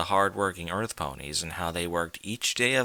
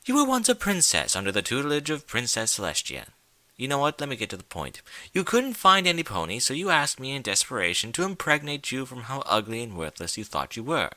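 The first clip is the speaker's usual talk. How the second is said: high mocking trickster; 4 semitones higher than usual. Discord taunts Twilight.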